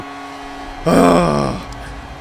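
long heavy exhale; exasperated sigh. Real, not acted. Stressed gamer exhales audibly.

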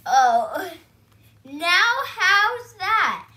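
loud, slow, pleased with himself; big proud dad asking for praise; proud showing-off. Acted. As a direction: ask it loud and drawn out, proud of the hat. Reading Daddy's proud question.

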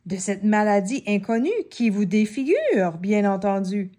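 mock serious. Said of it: "l'air sérieux, tout à coup".

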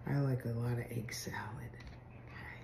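fast whispered aside; whispering. Real, not acted. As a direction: whisper it quickly, just to yourself. Quick aside while spreading.

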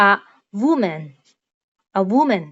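a woman, said slowly and clearly; example phrase. Shown as a demonstration. Teacher giving a woman as the example. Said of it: "เขาก็จะใช้คำว่า".

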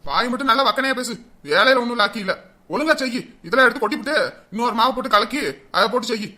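loud, brisk scolding; angry scolding. Acted. Husband scolding his wife over burnt sweets, angry. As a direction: snap orders in irritation.

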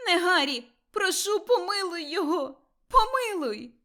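high, loud pleading cry for mercy; desperate begging. A narrator's reading. Mother begging the dark lord to spare her boy, high loud pleading. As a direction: throw everything into begging.

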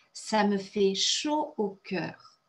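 "Ça me fait chaud au cœur" said slowly, each word clear; slow it down so the class can repeat; slow model phrase. Shown as a demonstration. Teacher repeating the French phrase for the class, slowly. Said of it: "une phrase très française".

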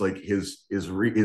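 ordinary talk, nothing marked

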